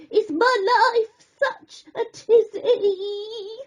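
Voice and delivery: a high crab voice with a laughing groan. A narrator's reading. Dizzy crab in the water groans, half laughing. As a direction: moan it like a dizzy little crab. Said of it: "Snippy groaned".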